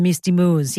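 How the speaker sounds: "moors" in a put-on British accent. Host reading listener warning about werewolves, put-on accent on "moors". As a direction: say "moors" with a mock British vowel. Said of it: "say that word with an accent".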